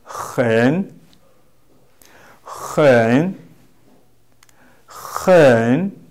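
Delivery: "hen" said alone, long dip then rise; model pronunciation. Shown as a demonstration. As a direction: repeat "hen" slowly with rough h and dipping tone. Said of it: "we pronounce this word".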